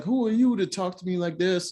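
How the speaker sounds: a touch of offended outrage; mock indignation. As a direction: imitate her getting angry, mildly. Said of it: "she starts getting angry".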